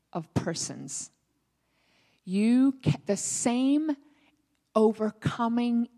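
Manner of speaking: slow, measured spoken prayer with long pauses. Real, not acted. Believer praying to Father for promises, slow prayer. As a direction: pray it out deliberately, phrase by phrase.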